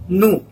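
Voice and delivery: "nous" as "noo", silent s. Shown as a demonstration. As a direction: model "nous" with the French ou vowel. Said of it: "U pronunciation".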